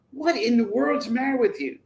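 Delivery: high-pitched exasperated question; exasperated scolding. Retold or imitated. Father confronting a pouting teen, exasperated.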